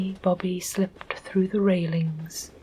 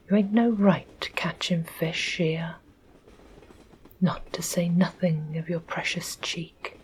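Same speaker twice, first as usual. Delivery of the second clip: stern. Acted. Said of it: "said sternly".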